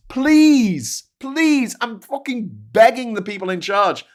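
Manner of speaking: high, loud pleading; begging. Real, not acted. Vlogger begging film bosses for a chance, loud plea. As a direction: beg the bosses in earnest.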